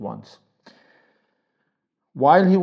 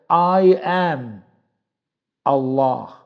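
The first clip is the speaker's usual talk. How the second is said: voice of Allah; 5 dB louder, slower than usual. Acted. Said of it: "so majestic, so powerful".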